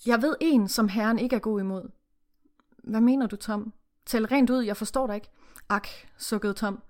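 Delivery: steady read-aloud narration with character lines; story reading. Acted. Reading the novel to the co-host, read-aloud narration.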